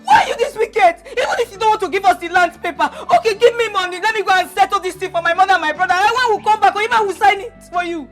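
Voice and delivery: heated tearful accusation; ranting. Acted. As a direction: pour out the grievance at uncle. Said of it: "When you are done ranting".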